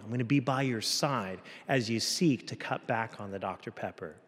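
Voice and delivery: gently correcting, then reassuring; encouraging. Acted. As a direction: challenge them kindly, promise your support. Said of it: "in an encouraging way".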